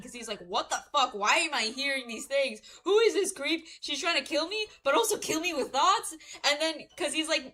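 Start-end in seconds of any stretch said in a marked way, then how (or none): 0.4-6.1 retold panicking, getting higher and louder; mock panic. Prince hearing a stranger's thoughts, mock panicking. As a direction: act rattled, building in alarm. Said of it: "he's, like, obviously panicking".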